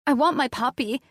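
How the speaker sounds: high, loud shout for her puppy. A narrator's reading. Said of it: "I shouted back".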